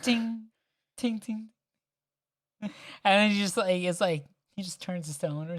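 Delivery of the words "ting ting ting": imitated metallic tings, spaced out; small ringing tings, dying away; falling spoon sound. Player mimicking a spoon dropped by Ash, tinging. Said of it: "the spoon fall".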